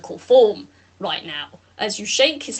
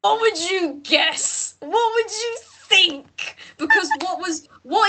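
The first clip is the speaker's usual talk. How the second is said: probing character; 7 semitones higher, slower than usual. Acted. GM voices NPC probing.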